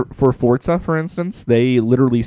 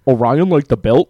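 slow puzzled question; mock question; 3 semitones higher, 5 dB louder, slower than usual. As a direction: drag it out, confused. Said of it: "they're gonna be like".

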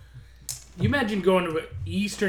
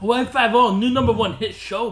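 excited announcer; 4 semitones higher, 7 dB louder than usual. Pretend. Hyping show title.

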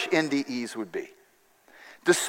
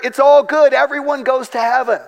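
higher, louder mock-confident pronouncement; imitating self-assured researchers, higher pitch; confident declaration; 7 semitones higher, 4 dB louder than usual. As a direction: proclaim it like breezy experts. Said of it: "And the researchers declared".

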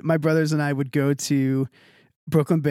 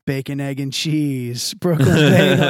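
retold exclamation; 5 dB louder, slower than usual. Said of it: "points at me and he's like".

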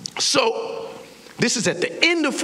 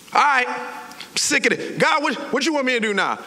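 exasperated, slightly raised voice; worn-out irritation, pitched up; frustrated; 5 semitones higher than usual. Acted. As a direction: give in grudgingly, fed up. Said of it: "he's frustrated".

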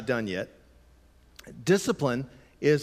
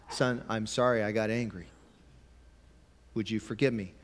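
sincere apology; 2 semitones lower, 4 dB quieter than usual. Retold or imitated. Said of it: "comes into a kid and says".

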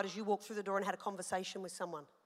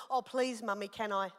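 put-on polite pleading child; 3 semitones lower, 4 dB quieter than usual. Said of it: "he knows how to start again".

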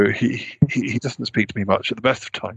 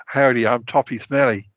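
bad American accent. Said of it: "that's awful".

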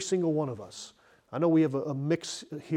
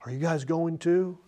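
mildly sorrowful, slightly raised question; 4 semitones higher than usual. Shown as a demonstration. Preacher showing another reading of Jesus' question, mildly sorrowful. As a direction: ask it with a touch of hurt. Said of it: "he said it sorrowfully".

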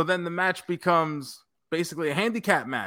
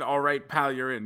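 incredulous echo; 3 semitones lower than usual. Retold or imitated. Echoing the partner's text back to him, stunned disbelief. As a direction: echo it back like you can't believe it.

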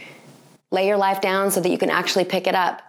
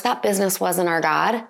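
usual speaking voice

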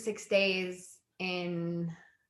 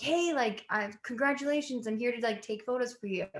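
higher-pitched, eager greeting; imitated chipper photographer; 4 semitones higher than usual. Bride-to-be imitates photographer popping out to congratulate her, high chirpy voice. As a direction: lightly mimic an intruding photographer introducing himself. Voicing photographer who pops out.

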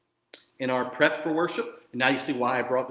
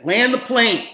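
higher, louder quip; playful quoted catchphrase; quoting a catchphrase; 7 semitones higher, 8 dB louder, slower than usual. Retold or imitated. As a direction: toss out the punchline "Land the plane". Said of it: "Mayor would say".

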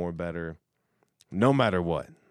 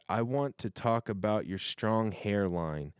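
reading her compliment; 3 semitones higher, 4 dB louder, slower than usual. Retold or imitated. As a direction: purr it like a flirty come-on. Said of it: "so she said".

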